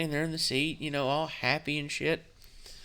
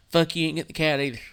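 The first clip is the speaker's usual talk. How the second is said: louder, fast retort; angry retort; 3 semitones higher, 5 dB louder, much faster than usual. Retold or imitated. Answering the ex-wife about the cat, fast angry retort. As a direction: spit it back. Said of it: "divorce argument retold".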